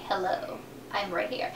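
soft, low little hello from the lashes; talking eyelashes. Acted. Lashes calling attention to themselves, soft low role voice. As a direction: drop low and quiet, voicing the lashes.

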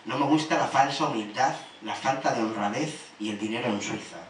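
measured poetry reading with pauses between lines; even, deliberate spoken-word delivery; poem recital. Acted. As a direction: recite a list of likes and dislikes, line by line.

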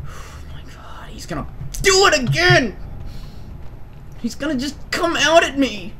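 scared whisper. Real, not acted. Scared whisper during horror game.

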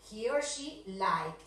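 "like" said bare, no s sound; "like" slow and bare. Shown as a demonstration. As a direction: say "like" without the ending s. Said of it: "sin ese".

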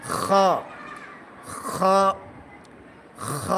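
each খ a long throat rasp into a rounded o; thick kho. Shown as a demonstration. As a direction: repeat খ heavy, from the back of the throat. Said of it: "খ হরফটা মোটা হবে". (খ মোটা উচ্চারণে)

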